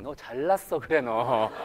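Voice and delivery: low, quiet sarcastic jab; muttered mock resentment; begrudging sarcasm. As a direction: voice a sceptical parent's grudging put-down. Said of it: "이런 표정으로 지금 보고 계세요".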